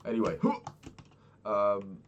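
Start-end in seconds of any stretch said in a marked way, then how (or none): 0.4-1.0 sharp gasp. Real, not acted. Sudden in-game surprise.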